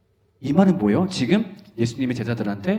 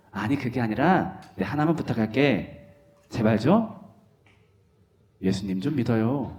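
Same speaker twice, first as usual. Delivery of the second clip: gentle pastor; 4 semitones lower, 5 dB quieter than usual. Acted. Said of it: "목사님".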